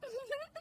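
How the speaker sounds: soft high giggle. Acted. Daughter-in-law watching her TV serial, soft giggling. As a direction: titter to yourself. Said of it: "मासूम बहू फिर से TV देखने".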